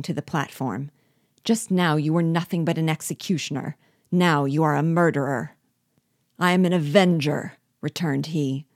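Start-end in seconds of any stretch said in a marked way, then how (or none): 1.4-5.6 a touch of outrage, rising to louder; indignant accusation. Acted. Captive accuses the dwarf, mildly indignant. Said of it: "cried I". 6.4-7.5 louder, through the teeth; grinding teeth. Acted. Dwarf answers his accuser through gritted teeth. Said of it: "grinding his teeth".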